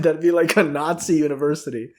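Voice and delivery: usual speaking voice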